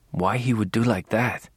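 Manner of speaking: a hint of a Spanish accent. Angel voiced with accent.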